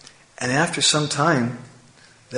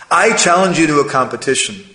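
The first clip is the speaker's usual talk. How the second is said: louder, acted bravado; boastful challenge; 3 semitones higher, 5 dB louder than usual. Proud crow challenging the swans, boastful. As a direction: throw down the challenge.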